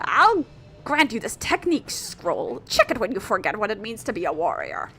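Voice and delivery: grand master bestowing a scroll; theatrical, swooping sensei; Onigiri-sensei. Acted. Voices game's sensei character.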